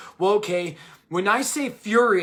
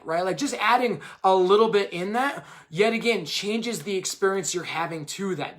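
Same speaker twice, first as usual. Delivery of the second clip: usual speaking voice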